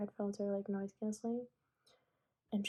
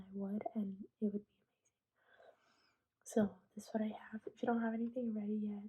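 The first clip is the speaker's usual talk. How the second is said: whispering. Real, not acted. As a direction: whisper it close to the mic.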